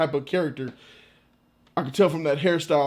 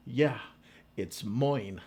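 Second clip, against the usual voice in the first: low, lightly voiced Irish madman; crazy Irishman; 5 semitones lower, 7 dB quieter, much slower than usual. Irishman claiming the island as his, lightly acted madman. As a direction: play the Irishman's possessive reply, dropped low. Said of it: "the crazy Irishman".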